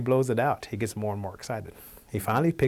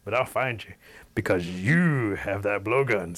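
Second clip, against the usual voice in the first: bear warning. Acted. Bear warns the Cherokees.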